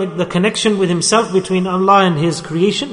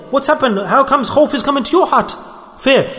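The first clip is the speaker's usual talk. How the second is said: higher-pitched, disbelieving questions; astonished questioning; 5 semitones higher than usual. Acted. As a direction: demand to know, voice raised in pitch. Acted astonished questioning of the man.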